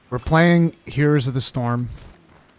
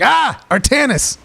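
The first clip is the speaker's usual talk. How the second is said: mock panic cry; 11 semitones higher, 6 dB louder than usual. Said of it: "I'll be like".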